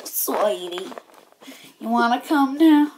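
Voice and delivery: soft creepy whisper; eerie whispered lure. Acted. Villain whispering in woods.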